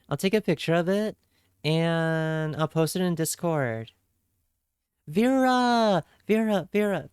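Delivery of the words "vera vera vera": excited calling out. Real, not acted. Greeting a friend who just arrived.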